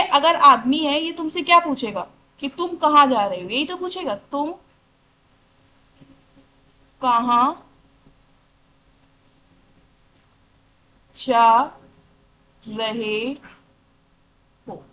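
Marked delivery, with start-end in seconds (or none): 4.1-14.8 each word set apart by long pauses. Shown as a demonstration. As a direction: spell the question out one word at a time. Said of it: "यही तो sentence पूछेगा". (हर शब्द अलग अलग, लंबे ठहराव के साथ)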